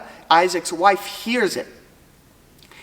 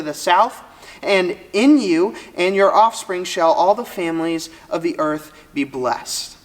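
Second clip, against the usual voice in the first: steady, measured Bible reading; scripture reading. Acted. Preacher reading Genesis aloud to the listeners, measured. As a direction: read the verses out to the congregation, steady and measured.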